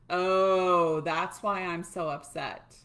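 loud, long OH, then slowing down; pretend realization. Coach acting out finding why they are upset, dawning realization. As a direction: act out the penny dropping, drawn out.

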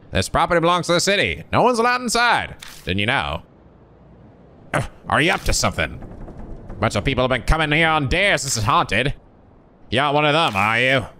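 high, animated security guard; enthusiastic guard. Acted. Guard questioning kids who came on dares, high and animated. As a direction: question them in an eager, high-pitched voice.

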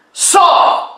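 high urgent call; high cry. Acted. Preacher cries out to Lazarus, high. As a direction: fling the word up high. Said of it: "c'est pour ça qu'on dit ici".

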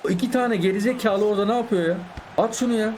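high, exasperated yell at teammates; furious gamer rant; angry yelling. Real, not acted. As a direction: snap at the useless players.

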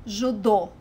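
Judô stressed on the final dô; last-syllable stress. Shown as a demonstration. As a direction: say Judô as "zhoo-DOH". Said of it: "put the emphasis on the last syllable".

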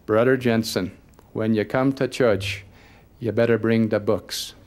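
light Brooklyn accent, retold; a hint of Brooklyn accent. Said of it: "in his best Brooklyn accent".

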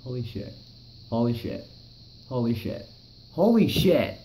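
building from hushed awe to a high, loud shout; awed exclamation. Retold or imitated. Watching a shooting star cross the sky, awe rising to a shout. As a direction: let the awe grow until it bursts out. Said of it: "I was sitting there like".

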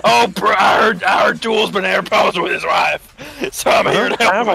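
impressionist. Wrestler promo voice, game.

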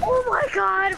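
voice cracking up an octave. Real, not acted. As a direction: voice cracks high on excitement. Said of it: "My voice just cracked".

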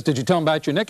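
lightly voiced wife. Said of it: "She says".

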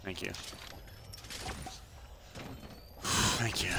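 breathy whispered thank you; sighed thanks. Real, not acted. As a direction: let it out on a sigh. Sighing thanks.

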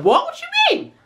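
high, puzzled "what do you mean"; confused surprise. Retold or imitated. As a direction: sound baffled and thrown. Friend's surprised reply.

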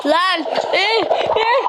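high startled eh eh; startled yelp. Real, not acted. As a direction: jump in fright. Startled in horror game.

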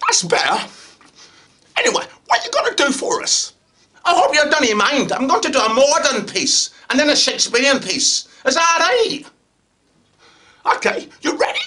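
boisterous Scottish actor at an audition. Acted. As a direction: play it big and loud in a Scottish accent. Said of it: "went up to Scotland".

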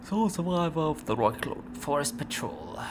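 reading through a yawn; stretched by a yawn. Real, not acted. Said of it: "Sorry, I'm yawning a lot".

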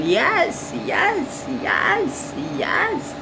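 very high, squeaky repeated cheer; excited squeal. Real, not acted. Woman planning dolls' Halloween outfits, high excited squeal.

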